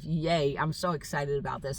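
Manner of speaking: flat, dry mock enthusiasm; sarcastic yay. Real, not acted. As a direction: pretend joy, clearly meaning the opposite. Police involved, mock cheer.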